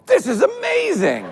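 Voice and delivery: high, slow, laughing wonder, mimicking himself waking from sedation; drugged euphoria. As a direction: float up in blissful amazement. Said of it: "and I go".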